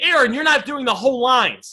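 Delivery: ordinary talk, nothing marked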